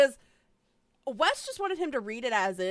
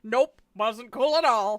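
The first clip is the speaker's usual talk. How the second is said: louder mocking impression; louder put-on mock voice; 6 dB louder than usual. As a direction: imitate him scornfully. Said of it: "that impression I just did".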